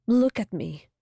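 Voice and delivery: a pleading command; urgent trembling plea. Acted. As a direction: demand his eyes, voice shaking. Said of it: "her voice trembling".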